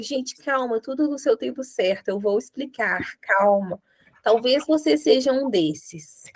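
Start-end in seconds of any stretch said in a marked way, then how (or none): 0.0-3.8 calming the students. Retold or imitated. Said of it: "e eu fico".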